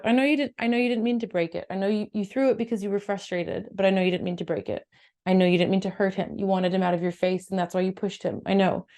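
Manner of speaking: reassuring parent. Shown as a demonstration. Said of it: "saying something more along the lines of".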